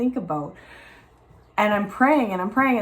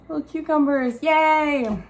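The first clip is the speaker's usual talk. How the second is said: higher, cheerful little cheer; real small burst of delight; 6 semitones higher, slower than usual. Real, not acted. Showing sprouting cucumbers.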